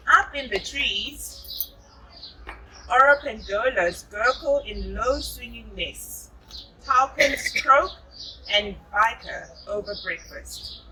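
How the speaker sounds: put-on gentle storybook narration for a child; reading to children. A narrator's reading. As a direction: read it like a bedtime picture book. Reading picture book to child.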